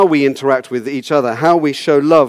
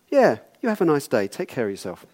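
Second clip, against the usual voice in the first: mock-polite dismissal; 5 dB quieter than usual. Doctor brushing the patient off.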